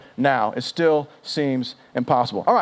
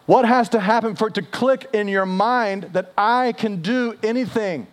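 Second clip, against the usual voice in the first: acted pleading, pitched up and slowing; heartbroken exasperation; 4 semitones higher than usual. Jesus to his closest friends, acted heartbroken exasperation. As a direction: plead to be understood, slowing at the end. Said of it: "Jesus' heart's broken".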